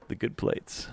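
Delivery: breathy hushed whisper, mock reverent; whispered good plates. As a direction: whisper it like a precious treasure. Mimicking old person showing plates.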